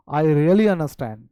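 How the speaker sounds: understand said as anəstɛn, no D at the end. Shown as a demonstration. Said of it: "नहीं बोलेंगे, बस स्टैंड नहीं बोलेंगे". (understand बिना डी के, नाक से)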